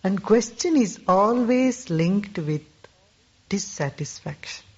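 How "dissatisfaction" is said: whispered. Acted. Speaker's teaching on questions.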